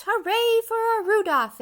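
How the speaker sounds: high, loud cheer of a crowd; joyful screech of delight; excited cheering crowd. A narrator's reading. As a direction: shout it out like the whole crowd is cheering. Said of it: "started to screech".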